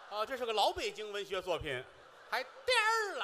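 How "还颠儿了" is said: a sudden high, loud mock shout; incredulous shout. Real, not acted. Repeating his slang word to the partner, an incredulous high shout. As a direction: squawk it back in disbelief.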